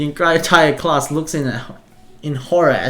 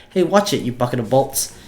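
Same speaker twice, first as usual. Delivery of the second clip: angry yell at the robot; angry shout. Acted. Van yells at robot.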